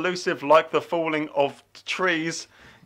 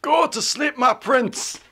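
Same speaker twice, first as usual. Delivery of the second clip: lightly creepy, half-voiced lullaby; creepy whisper voice; 6 semitones higher, slower than usual. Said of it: "Do Nina voice".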